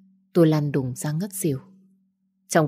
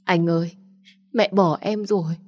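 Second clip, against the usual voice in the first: a touch of choked-up grief, slightly raised; tearful choking; 2 semitones higher than usual. Acted. Grieving girl tells him her mother left her, tearfully. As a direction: voice the bereaved girl's mild sob. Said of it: "Tôi bật khóc nghẹn ngào".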